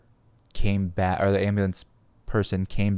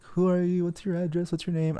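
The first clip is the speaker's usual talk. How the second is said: higher, quick-fire questions; imitating paramedic; 10 semitones higher than usual. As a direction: rattle off the paramedic's checklist.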